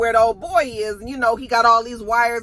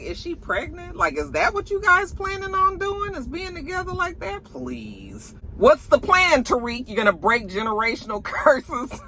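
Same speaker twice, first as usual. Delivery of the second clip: mocking Effie; 7 semitones higher than usual. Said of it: "she was just like".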